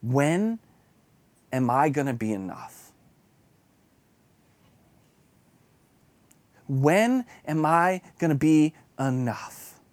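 quiet rebuke. Retold or imitated. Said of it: "I very clearly hear the Lord say".

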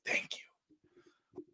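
breathless whispered thank you; soft whispered thank you. Pretend. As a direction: breathe the first thank you almost silently. Imagined relief, whispered thanks.

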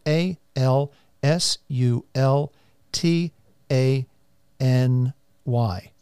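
A L S U L T A N Y spelled letter by letter; spelling it out. Real, not acted. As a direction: spell A L S U L T A N Y one letter at a time. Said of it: "And I'll spell that".

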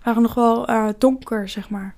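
talking with a head cold; blocked nose, congested voice; stuffy nose. Real, not acted. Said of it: "sorry, ik ben verkouden".

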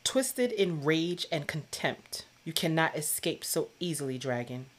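reading aloud. Shown as a demonstration. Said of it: "Second to last paragraph".

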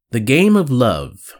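slow, theatrical title reveal; drawn-out, hammed-up episode title; mock-grand announcement. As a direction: announce the theme with mock gravity. Mock-grand intro of the show theme.

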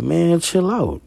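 a high-pitched, drawn-out man, chill out; high, slow brush-off. Retold or imitated. Man waving off his jealous girlfriend, high and drawn out. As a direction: stretch it out high and dismissive.

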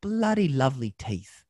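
Pop star impression. Pop star complimenting the host's teeth on stage, high put-on voice. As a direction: camp it up like a cheeky pop star. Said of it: "he goes".

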